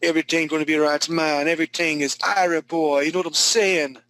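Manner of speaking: lightly put-on Jamaican accent, a bit fast; a playful quick imitation of a Jamaican accent. Art teacher joking to a student about his dreads, mock Jamaican accent. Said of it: "Good Jamaican accent".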